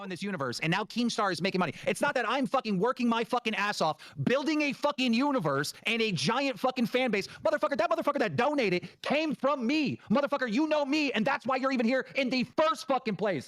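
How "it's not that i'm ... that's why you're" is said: heated swearing rant, rising in pitch; furious rant. Real, not acted. Streamer ranting at a donor about respect, angry. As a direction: tear into the donor, voice climbing.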